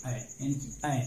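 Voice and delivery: ऐ as the vowel in English "man"; short "ae" vowel. Shown as a demonstration. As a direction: isolate the vowel ऐ for learners. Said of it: "इसका उच्चारण है ऐ". (ऐ का अलग से उच्चारण)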